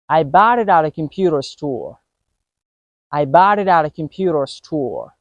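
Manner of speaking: bought it at a linked with each T as a quick D, computer too; linked flap T. Shown as a demonstration. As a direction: run bought it at a together with tapped Ts. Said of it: "let me say some sentences".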